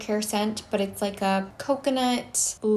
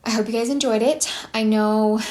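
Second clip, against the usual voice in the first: breathless, catching air; talking while winded; out of breath; 4 dB louder than usual. Real, not acted. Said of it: "sorry, I'm out of breath".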